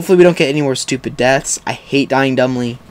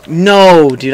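loud, higher, stretched protest; dismayed cry; 3 semitones higher, 6 dB louder than usual. Real, not acted. Gamer killed just as he looks, dismayed cry.

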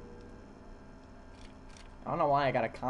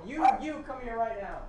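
pet talk; 8 semitones higher than usual. Real, not acted. Calling the dog over.

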